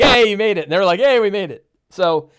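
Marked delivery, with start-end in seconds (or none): 0.0-0.6 high, loud celebratory cry; relieved DM cheering a lucky escape; acted cheering. DM celebrates player's survival. 1.0-1.7 raised, louder group celebration; mock chorus of happy survivors; imitated cheering. Players echo the DM's celebration.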